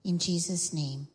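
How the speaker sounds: measured, quieting prayer. Real, not acted. Leads children in prayer.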